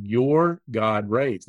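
"Your" leaned on, slow and deliberate; slow read, weight on "Your"; stress on your. Shown as a demonstration. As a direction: hit "Your" to show God belongs to you. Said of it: "a passage that says".

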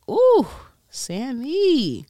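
high, loud ooh of admiration; mock swooning. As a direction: coo it like a smitten admirer. Mimics islanders swooning over Sammy.

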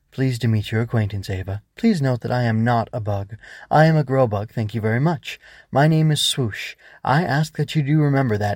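lightly voiced prim little bug, pitch lifting; a touch of huffy formality; mildly indignant grow bug. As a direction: correct them like a proud, proper little creature. Plays the proper, indignant grow bug.

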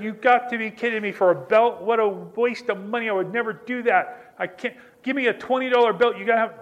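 rising outrage at the price of a belt; mock indignant shopper; exasperated disbelief. Third store, exasperated over belt price.

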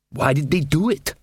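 puzzled dwarf, set apart from the narrator. Acted. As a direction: ask it as the bewildered dwarf. Casanunda surveys the wreck.

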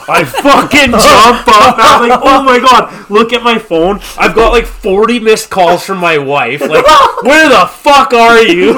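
high and loud, laughing through it; half-laughing as he relives the panic. Real, not acted. Husband laughing about forty missed calls from his wife. Panicked retelling of waking late.

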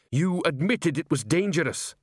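high, understated screech; screamed. A narrator's reading. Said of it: "he screamed".

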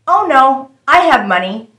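a hint of the angelic girl; sweet young girl voice. Stranger refusing money help, in a lightly sweet girl voice. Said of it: "an angelic voice".

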